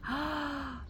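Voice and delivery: pained confession. Retold or imitated. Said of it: "be honest with yourself and be like".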